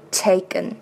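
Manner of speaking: "taken" with the "A" fully sounded as "ay"; full vowel A. Shown as a demonstration. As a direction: bring out the "A" in "taken". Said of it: "这个元音A要发出来". (“taken”元音A发足)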